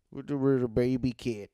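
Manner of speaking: put-on cooing baby-talk voice. Shown as a demonstration. Demonstrating baby talk for a podcast co-host, cutesy baby talk. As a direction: talk like you're doting on a pet. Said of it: "I baby talk".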